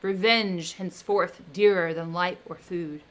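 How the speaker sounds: loud, menacing creature; the creature threatening his maker, loud; vengeful threat. Acted. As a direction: vow revenge with rising menace. Creature threatens Victor with revenge.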